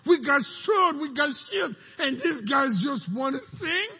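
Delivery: enemy soldier baffled, a touch mocking; lightly voiced enemy soldier. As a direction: scoff at the singing army.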